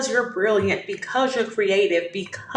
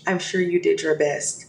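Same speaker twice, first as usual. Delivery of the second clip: kindly; 5 semitones lower than usual. Retold or imitated. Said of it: "looked at him very kindly and said".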